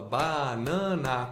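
"Banana" slowly, split into ba-na-na; separando sílabas. Retold or imitated. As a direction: stretch each syllable of "Banana" apart. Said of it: "ele separou a sílaba". ("Banana" devagar, sílaba por sílaba: ba-na-na)

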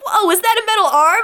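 high, wide-eyed gasp of a question; excited kid. Retold or imitated. Imitating Peter amazed at Bucky's arm, high and awed. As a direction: sound amazed like a teen.

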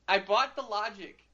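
laughing at himself as he repeats it; rueful laugh on the words. Real, not acted. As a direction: chuckle through the admission.

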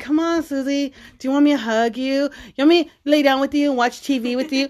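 playful pleading offer; coaxing. Retold or imitated. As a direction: imitate a parent sweet-talking a sulky kid. Parent coaxing sulking daughter, retold.

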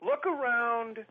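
very slow, drawn-out trapper voice. Retold or imitated. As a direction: spell it out like a patient country trapper. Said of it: "he goes".

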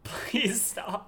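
hushed pleading whisper. Acted. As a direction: whisper it, half-joking. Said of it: "whispers back to partner".

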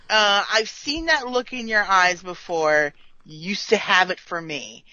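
a touch of self-pity, put on; mock wistful. Podcaster imitating Riker talking to Troi, mildly mock-wistful. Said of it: "he says it all wistfully".

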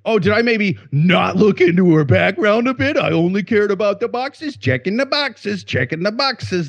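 sarcastic put-on excuse-maker; mocking sarcasm. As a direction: sneer at a lame excuse. Mocking the hiring manager's excuses.

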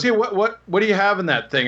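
high, fast questioning cop voice; suspicious cop. Retold or imitated. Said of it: "he goes".

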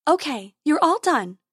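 high fairy voice; fairy dentist. A narrator's reading. Tooth Fairy finishes with her unicorn patient, high voice.

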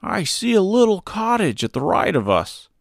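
high, light voice for a straw man; Scarecrow voice. A narrator's reading. Scarecrow pointing out a cottage to Dorothy, high and light. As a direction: play the cheerful Scarecrow up high.

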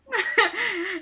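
high, breathy laugh with a sob-like catch; a short embarrassed laugh. Real, not acted. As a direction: laugh it off helplessly. Laughs after mock reply.

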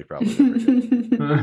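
mock shrill never again; comic high squeak. Jokey high aside.

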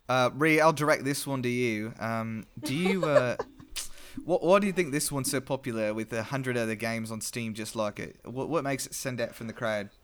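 put-on a little Australian accent, half-done; Steve Irwin. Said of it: "It was my Steve Irwin".

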